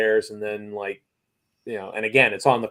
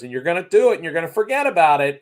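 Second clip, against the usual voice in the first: retold, raised and pressing, higher pitch; mock-stern waiter, louder and higher; emphatic warning; 6 semitones higher, 6 dB louder, faster than usual. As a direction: hammer the warning home. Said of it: "And he goes".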